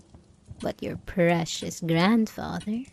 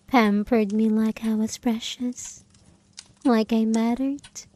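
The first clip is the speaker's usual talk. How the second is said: tender whisper; 2 semitones higher than usual. Acted. Tender memory.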